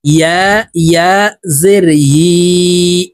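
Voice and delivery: "ইয়া" formed with the middle of the tongue; slow, drawn-out spelling, "ইয়া" from mid-tongue. Shown as a demonstration. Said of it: "ইয়ার উচ্চারণ জিহ্বার মধ্যখান থেকে হবে". ("ইয়া" জিহ্বার মাঝখান থেকে, টেনে টেনে)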